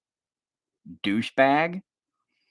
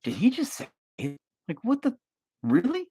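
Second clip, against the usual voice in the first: outraged disbelief; 13 semitones higher than usual. Retold or imitated. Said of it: "and she's like".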